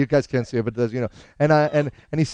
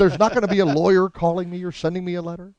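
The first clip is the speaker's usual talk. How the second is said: higher, worried checking; comic impression, pitched up; Albert Brooks; 4 semitones higher than usual. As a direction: seek reassurance in his voice. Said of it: "I actually do an impression of him".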